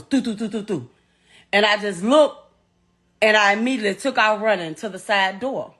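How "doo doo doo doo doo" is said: rapid run of "doo" sounds for gunfire; imitated gunshots. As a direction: mimic a burst of shots by mouth. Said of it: "all I heard was".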